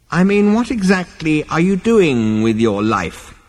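put-on high, lecturing old man; reproachful old ancestor. A narrator's reading. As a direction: scold a wayward descendant. Ancestor lectures great-grandson.

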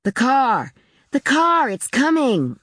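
high, excited cry from a window; shrill it out to the whole house; shrill child's shout. A narrator's reading. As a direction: narrator voicing a boy's high-pitched yell. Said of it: "Paul shrilled from his window".

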